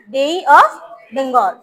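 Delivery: "Bay" stretched into bei-ee, very slow; slightly drawn out. Shown as a demonstration. Teacher modelling for pupils, "Bay" slowly drawn out to an ee. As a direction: say "Bay" with a long trailing ee before "of Bengal". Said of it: "একটু টান দিয়ে".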